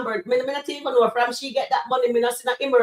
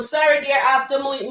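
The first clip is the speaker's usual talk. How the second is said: ordinary talk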